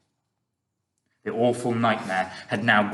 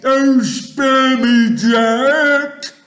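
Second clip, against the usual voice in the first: high, slow, wailing giant yell; pleading yell; 13 semitones higher, 12 dB louder, much slower than usual. A narrator's reading. Giant begging Jack for mercy, yelling. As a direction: beg at full volume. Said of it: "he yelled".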